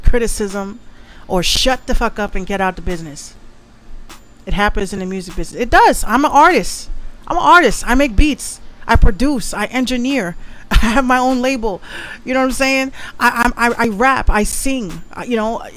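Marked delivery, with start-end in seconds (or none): 5.6-10.3 excited boast. Real, not acted. Proud self-promotion outburst.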